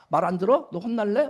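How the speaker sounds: put-on mildly angry parent telling off a child; acted-out threat to a child; mock scolding. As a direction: scold with a touch of temper. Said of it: "막 화를 내서 끌어들여야 된다".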